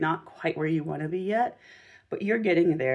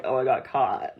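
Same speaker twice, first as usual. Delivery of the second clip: caught out voice; 4 semitones lower, 4 dB louder than usual. Pretend. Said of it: "so it's like".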